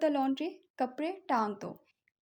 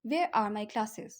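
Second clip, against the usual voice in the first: very slow, word by word correct form; slow correct model; 3 semitones lower, much slower than usual. Shown as a demonstration. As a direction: dictate the right form slowly. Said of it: "नहीं बोलेंगे". (धीमा, सही वाक्य)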